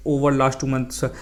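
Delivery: slow, careful example read; slow model sentence. Shown as a demonstration. Teacher reads the wrong version slowly to students. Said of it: "ऐसा बोलूँगा कि".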